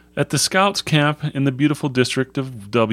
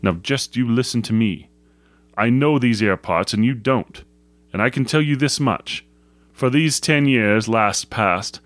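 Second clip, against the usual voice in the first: lightly voiced rustic shepherd, earnest; a hint of a grave old countryman. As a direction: explain firmly in mild country dialect.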